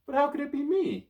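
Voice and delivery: surprised. Acted. Hero surprised.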